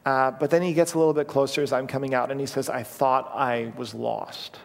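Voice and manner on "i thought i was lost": put-on sad child. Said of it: "he was so freaked out and sad".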